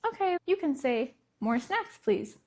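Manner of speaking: calm teaching voice, no reproach; neutral, educative tone. Shown as a demonstration. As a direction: gently teach a toddler the words. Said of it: "with a very neutral, educative tone".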